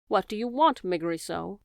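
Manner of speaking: a mild shout of her full name. Acted. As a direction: call her name out, rising. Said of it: "the princess shouted".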